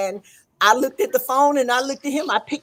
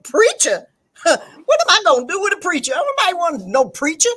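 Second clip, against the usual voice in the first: mock disbelief; 5 semitones higher than usual. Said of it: "And I went".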